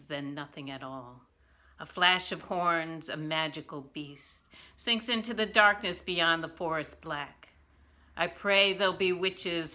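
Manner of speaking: measured recital, each line falling away; poetry reading. Acted. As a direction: read the poem line by line, letting endings drop. Reads own poem aloud.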